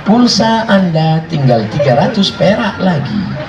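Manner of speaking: lightly mimicked operator recording; mock machine announcement; automated phone voice. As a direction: recite it like a recorded credit-balance announcement. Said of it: "suara mesin aja dia tak tahan".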